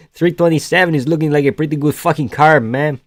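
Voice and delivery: lightly put-on Brazilian fighter voice; Moicano. Streamer hyping the fight card, lightly imitated fighter's accent. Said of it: "I'm just doing Moicano".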